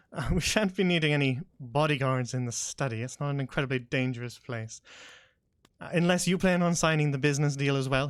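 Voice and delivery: dry, mocking noble; sarcastic. Lord Sullivan mocking the bodyguards, sarcastic. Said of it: "sarcasm dripping from his voice".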